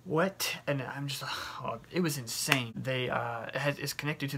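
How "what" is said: 겁에 질려 놀란 "뭐?"; shocked what. Retold or imitated. Waking up with tube in side.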